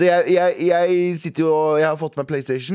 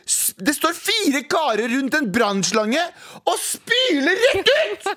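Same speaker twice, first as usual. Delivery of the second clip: high, laughing retelling, almost crying with laughter; much higher, breaking into laughter; laughing while telling; 12 semitones higher, much slower than usual. Real, not acted. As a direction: laugh it out in disbelief. Laughing through wet retelling.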